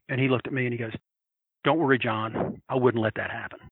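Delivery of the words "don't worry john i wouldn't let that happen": low, steady protector's voice; unruffled, low-pitched comfort; calm reassurance. Retold or imitated. Retold friend reassuring him.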